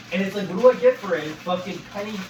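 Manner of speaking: sudden loud fast burst; exasperated outburst. Real, not acted. Complaining to camera about paying into EI, a loud fast exasperated burst. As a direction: fire it off in exasperation.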